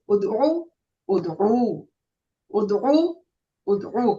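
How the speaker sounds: ud'u with the u held for two counts; ud'u repeated, u drawn out; stretched u. Shown as a demonstration. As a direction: stretch the long u in each ud'u. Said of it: "say it with a stretch".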